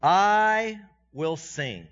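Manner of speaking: I will sing drawn out slowly; slow emphatic. Shown as a demonstration. Preacher quoting David's vow, slow emphatic. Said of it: "And then he says this".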